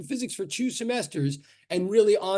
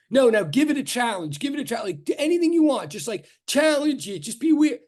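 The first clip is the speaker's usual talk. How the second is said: eager urging; 4 semitones higher than usual. Retold or imitated. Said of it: "the person to me was like".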